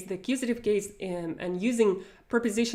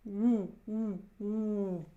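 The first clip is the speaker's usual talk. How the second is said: owl hoot; 4 dB quieter, much slower than usual. Shown as a demonstration. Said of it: "like an owl".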